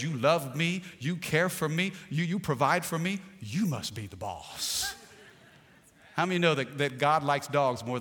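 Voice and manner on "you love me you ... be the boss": dog's voice. Retold or imitated. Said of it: "A dog says".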